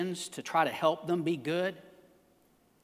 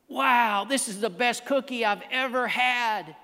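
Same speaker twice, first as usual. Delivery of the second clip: delighted storybook Frog; 4 semitones higher than usual. Acted.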